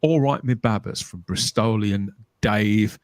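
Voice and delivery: put-on retry a Bristol accent, drawn out slowly; attempted Bristol accent. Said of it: "I can't do that accent".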